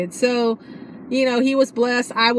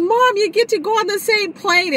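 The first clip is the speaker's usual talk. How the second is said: high, loud thrilled announcement; bursting with good news; imitating daughter's excitement; excited; 11 semitones higher, 4 dB louder than usual. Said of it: "She was so excited".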